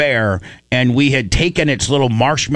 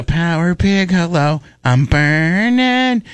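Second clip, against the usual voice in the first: drawn out safe word; 4 semitones higher, slower than usual. Retold or imitated. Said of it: "that was our safe word".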